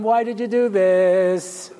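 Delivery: slow, drawn-out mock reproach; God questioning. Voices God questioning Adam.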